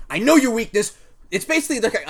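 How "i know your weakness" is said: pointed, menacing line; pointed threat. Acted. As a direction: lean into the threat. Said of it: "just pointedly".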